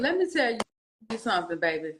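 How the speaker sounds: a hint of a firm auntie; lightly voiced auntie talking sense. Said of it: "I'm talking like an auntie".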